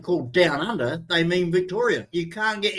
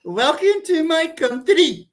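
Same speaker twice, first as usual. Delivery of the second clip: higher, slow put-on South Asian accent; mock customs officer; 10 semitones higher, 4 dB louder, slower than usual. Customs officer greeting arrivals at Brisbane, higher, slow mock South Asian accent. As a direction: welcome them in a hammed-up South Asian voice. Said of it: "this little Pakistani going there".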